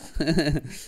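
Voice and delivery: imitated streamer giggle; short put-on chuckle; Swim. Player mimics a streamer amused mid-commentary, put-on laugh. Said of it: "just, like, laughing and stuff".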